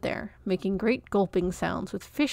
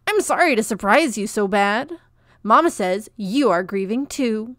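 sandpaper screech; 7 dB louder than usual. A narrator's reading. Peach telling grieving Comfort his mama's message, sandpaper screech. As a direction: scrape the words out earnestly and loud. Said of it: "said Peach in his sandpaper screech".

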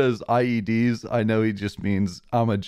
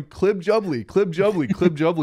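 higher-pitched mimicked chant, each falling; repetitive alien catchphrase; 6 semitones higher than usual. Mocking the alien who wouldn't stop, higher repeated catchphrase. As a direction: lightly imitate a catchphrase on a loop. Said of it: "he wouldn't stop going".

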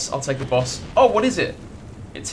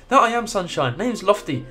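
attempted chirpy Geordie read; bad Geordie accent; 2 semitones higher than usual. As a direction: have a shaky go at a Geordie accent. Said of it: "I can't do Geordie either".

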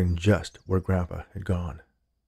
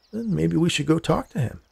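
reasonable suggestion, lifted higher; calm, reasonable; 8 semitones higher than usual. A narrator's reading. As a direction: gently propose it in a higher, lilting voice. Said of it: "in a calm, reasonable voice".

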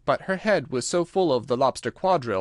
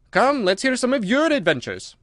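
louder, brisk Gryphon; gruff Gryphon voice; 10 semitones higher, 4 dB louder than usual. Acted. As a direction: bark it out as the Gryphon.

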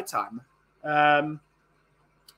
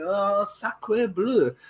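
mock French; much slower than usual. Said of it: "when I do an accent".

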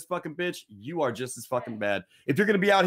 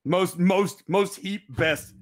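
lightly put-on Native American accent, slow and higher; mock Native American dialect; 4 semitones higher, much slower than usual. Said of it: "I'm speaking in ancient Native American dialect".

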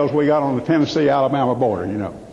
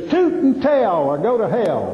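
slow sign reading; 2 semitones higher, slower than usual. Acted.

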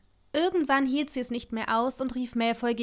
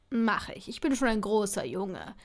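rough; 2 semitones lower than usual. Acted. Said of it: "beteuerte er rau".

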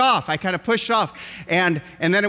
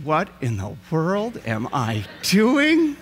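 inner panic; 3 semitones lower, slower than usual. Retold or imitated.

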